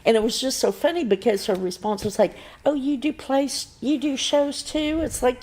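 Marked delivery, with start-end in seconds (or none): 2.6-5.0 a lightly voiced receptionist; surprised receptionist. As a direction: mimic the puzzled receptionist.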